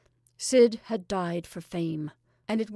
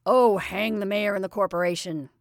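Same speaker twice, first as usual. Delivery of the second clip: a mild mock outburst, a little louder; impatient outburst; 4 dB louder than usual. Jimmy dismissing the waiting mayor, a mild mock outburst. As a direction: brush the mayor off, half-exasperated. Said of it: "cried Jimmy".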